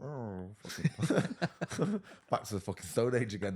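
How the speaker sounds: a sudden high, loud, hammed-up cry; mock exclamation. Mocking society's new attitudes, high hammed-up squeal. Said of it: "it's like".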